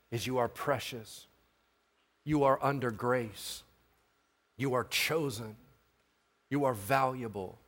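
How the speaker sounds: soft, low, spaced-out affirmations; quiet, sincere pastoral comfort; tender reassurance. Real, not acted. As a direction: gently assure each listener of their worth. Tender assurance to congregation.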